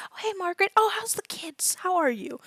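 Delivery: high, sing-song small-town neighbor; chatty neighbor. Acted. Neighbor stopping a stranger to chat, high sing-song gush. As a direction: gush like a friendly local. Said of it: "Some of them stop and go".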